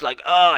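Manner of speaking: loud, high mock "oh" of embarrassment; embarrassed groan. Coach imitating a client embarrassed by her shadow, embarrassed groan. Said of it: "she was so embarrassed".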